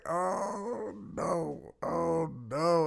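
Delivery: drawn-out, high-pitched mock dismay; amused dismay. Driver watching kids tell on each other, dismayed. Teller's reaction to kids confessing.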